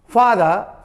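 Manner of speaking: फादर with the final r barely sounded; r shown in spelling. Shown as a demonstration. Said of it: "अंत में आया ... लिखाएगा".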